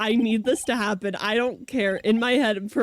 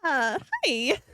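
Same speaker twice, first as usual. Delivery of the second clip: put-on much higher, softer little girl chirp; child happily greeting the prosecutor; cute Pearl greeting; 10 semitones higher, 4 dB quieter, much slower than usual. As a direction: greet her sweetly like a child. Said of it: "And Pearl's like".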